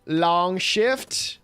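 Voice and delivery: mock excited holler; hammed-up outburst. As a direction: play it up big and high. Continues over-the-top put-on bit.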